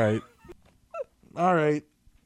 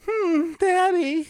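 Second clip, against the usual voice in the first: slow high moan; slow falsetto moan; much slower than usual. Pretend. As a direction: stretch daddy out high. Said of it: "and then go".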